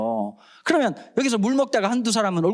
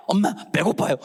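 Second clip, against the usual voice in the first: put-on hungry kid. Kid's carefree reply to mom.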